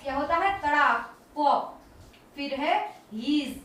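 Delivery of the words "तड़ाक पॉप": तड़ाक and पॉप said as a crisp, louder pop; punchy sound-word demo for kids; sharp popping sound word. Shown as a demonstration. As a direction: snap out तड़ाक, पॉप like a balloon bursting. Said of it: "तड़ाक की आवाज".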